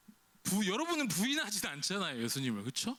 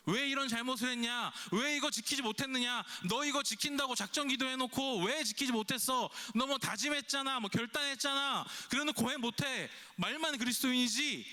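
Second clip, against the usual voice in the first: raised, reproachful scolding; 6 semitones higher than usual. Pretend. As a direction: scold the listener like a stern teacher. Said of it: "막 이렇게 혼내는 것이 아니라". (꾸짖듯 높은 목소리로)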